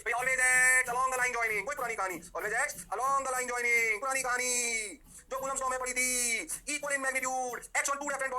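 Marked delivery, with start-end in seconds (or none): 0.1-1.7 We always act along the line joining, drawn out very slowly and louder; teacher hammering in the rule; slow dictation. Shown as a demonstration. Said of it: "key phrase repeated slowly". 2.4-4.0 We always act along the line joining, drawn out very slowly and louder; teacher hammering in the rule; slow dictation. Shown as a demonstration. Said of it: "repeat of same phrase".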